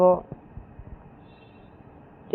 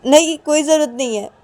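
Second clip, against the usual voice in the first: curt refusal; 8 semitones higher, 4 dB louder than usual. Acted. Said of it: "तो ये पायल बोलती कि".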